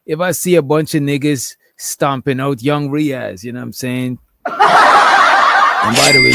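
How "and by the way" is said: laughing. Real, not acted. Laughing aside mid-story.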